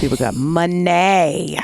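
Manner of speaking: "money" drawn out as "muh-NAY"; mock-fancy MONEY. Co-host jokes about rich people, "money" as a drawn-out "muh-NAY". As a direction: stretch "money" slowly, ending on a fancy "ay".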